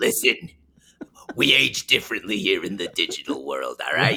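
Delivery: calm, low-pitched character voice. Answering a greeting in character as Agumon: Agumon voice, calmer and lower. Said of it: "Agumon, have you been smoking cigars again?".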